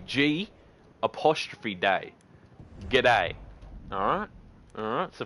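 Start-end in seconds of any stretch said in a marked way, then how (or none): 0.1-2.1 "G apostrophe day" said slowly, piece by piece; spelt-out greeting. Shown as a demonstration. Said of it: "You've gotta say". 2.9-3.3 "G'day" run into one quick word, falling; Aussie greeting. Shown as a demonstration. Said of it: "You've gotta say".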